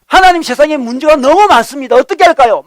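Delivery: acting out an overwhelmed grumbler; resentful complaint. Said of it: "막 원망스럽습니다".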